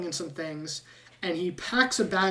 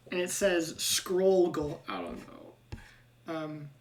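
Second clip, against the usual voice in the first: ordinary talk, nothing marked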